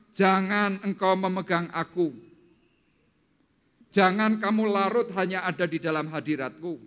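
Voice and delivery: high, forceful preaching; loud proclamation. Acted. Preacher voices Jesus sending Maria away, loud proclamation.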